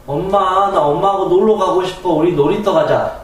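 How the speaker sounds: put-on child begging mom for the playground; child asking. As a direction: ask mom to go play. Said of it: "어린아이 심정이 어떨까요".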